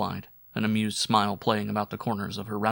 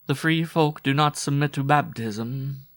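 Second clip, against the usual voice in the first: higher, louder words with a growl droning between them; 6 semitones higher, 5 dB louder than usual. A narrator's reading. Woman stating her people's creed to Waldo, droning growl. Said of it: "more of the droning growl between her words".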